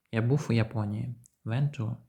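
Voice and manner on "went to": "Went to" with the t sounds merged; linked went to. Shown as a demonstration. Teacher demonstrating consonant linking. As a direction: run the t of went into to. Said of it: "починається на той самий приголосний".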